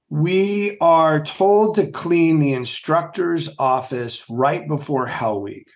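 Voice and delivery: usual speaking voice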